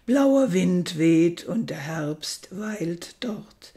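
measured poetry reading with lingering pauses; solemnly paced literary recital; poem recitation. Acted. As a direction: recite the poem line by line, letting each image settle.

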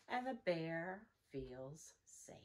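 soft bedtime whisper. A narrator's reading. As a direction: whisper it as they all fall asleep. Story's hushed final line.

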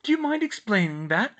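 high, loud demand to explain; incredulous. A narrator's reading. Mother to daughter about the fire, incredulous. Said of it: "Emma said incredulously".

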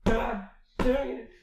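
high, loud, drawn-out protest; loud exasperation. Real, not acted. Reader fed up with the story's missing plot, real exasperation. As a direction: protest it with each word stretched.

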